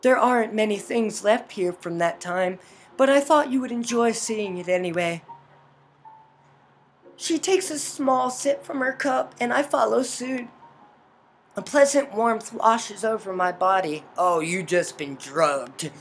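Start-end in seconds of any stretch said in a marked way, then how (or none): 0.0-5.2 composed mother figure in a story; mother character, gracious host. Acted. Voices game's mother character. 7.2-14.0 measured visual-novel narration; story narration. A narrator's reading. Reads game narration aloud.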